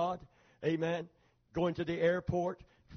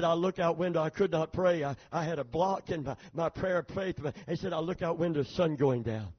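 Korean pastor; 4 semitones lower than usual. Retold or imitated.

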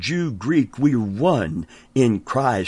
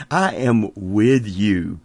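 "I am with you" with "I" leaned on, slow; slow emphatic promise; stress on I; slower than usual. Acted. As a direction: hit the word "I".

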